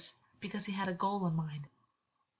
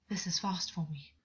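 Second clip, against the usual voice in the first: whispered. Acted. August's breathy confession.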